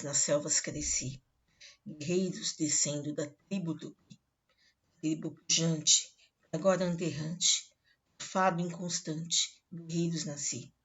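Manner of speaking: solemn dramatic poem reading; poem recitation. Acted. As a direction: declaim it like a warrior's death song. Recites Gonçalves Dias poem.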